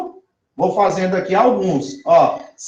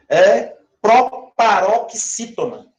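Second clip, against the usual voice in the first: proparoxítona stressed on the third-last syllable, slowly; stress the accent; slower than usual. Shown as a demonstration. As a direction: spell out the stress pattern. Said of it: "então, entendeu?".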